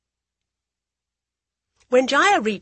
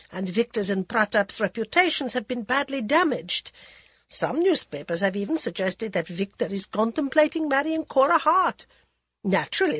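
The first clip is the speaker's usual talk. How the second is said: languid society lady, teasing; a drawling, worldly hostess; Lady Modi voice; 3 semitones higher than usual. Acted.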